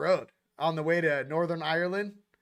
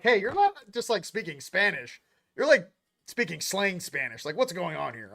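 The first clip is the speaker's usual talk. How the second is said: accusing teacher. Retold or imitated. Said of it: "Teacher, like, busts you".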